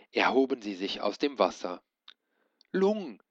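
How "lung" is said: hoher gerufener Schrei; über das Meer nach dem Drachen schreien; geschrien. A narrator's reading. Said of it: "schrie Ben so laut er konnte". (Ben schreit nach dem Drachen)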